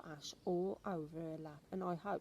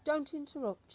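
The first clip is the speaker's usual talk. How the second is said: sharp, louder and higher rebuke; stern grandmother; 9 semitones higher, 7 dB louder than usual. Acted. Grandmother scolds the boy for interrupting, sharply. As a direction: cut him off like a strict granny. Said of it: "she said".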